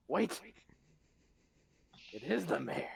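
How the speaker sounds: sudden realization. Acted. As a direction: shout the realization. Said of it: "But I go".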